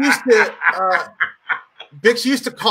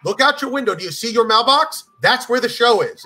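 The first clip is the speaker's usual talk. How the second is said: pushy booker, pitched up; higher-pitched, insistent retold sales pitch; Steve Bix; 4 semitones higher than usual. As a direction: lightly imitate someone insisting it's close. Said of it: "He's like".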